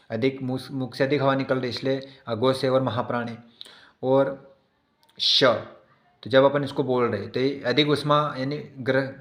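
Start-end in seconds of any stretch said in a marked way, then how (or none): 5.2-5.4 "श" with a long rush of air; fricative sibilant. Shown as a demonstration. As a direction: let "श" rub audibly inside the mouth. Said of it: "ग्रसन हो रहा है मुख के अंदर". ("श" को घर्षण के साथ खींचकर)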